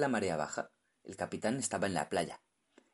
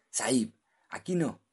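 terrified; 5 semitones higher, 6 dB louder than usual. Acted. Diver terrified.

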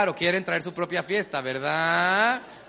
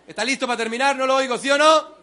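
rousing the crowd; 4 semitones higher, 4 dB louder than usual. Real, not acted. Rousing the audience.

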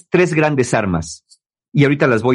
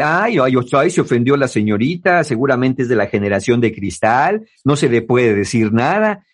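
sarcastic taunt; 3 semitones lower than usual. Retold or imitated. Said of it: "O el sarcasmo de".

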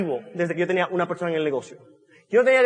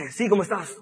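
a softer, drowsy answer like he was just woken; sleepy voice; 4 dB quieter than usual. Retold or imitated. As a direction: answer the phone half-asleep, a touch softer. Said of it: "Con mi voz de dormido".

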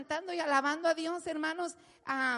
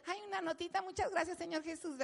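mock a meek little thanks; mock timid thanks; 3 semitones higher, 6 dB quieter, faster than usual. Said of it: "Nada de que".

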